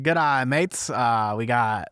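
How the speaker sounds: attempted Aussie captain; lightly faked Australian announcer; Australian accent. Captain of the ship greeting passengers, mock Australian accent. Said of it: "in a very thick Australian accent".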